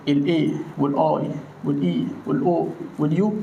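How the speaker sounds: lightly voiced, slow primary teacher chant; mimicking a school teacher. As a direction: recite the vowels like a bored schoolteacher. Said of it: "يقول لنا". (تقليد خفيف لمدرس الابتدائي وهو يعد الحروف)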